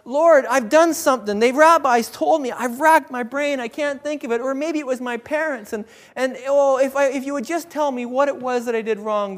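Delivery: lightly acted plea from a sufferer racking his brain; imagined desperate man. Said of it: "imagine this guy's looking at it and going like".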